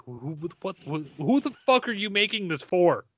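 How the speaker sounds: baffled, rising to an exasperated curse; mock fury at the filmmakers; exasperated outburst. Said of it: "and you're like".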